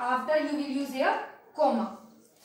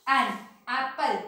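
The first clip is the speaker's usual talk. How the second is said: slow demo. Shown as a demonstration. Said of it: "This one is your vowel sound".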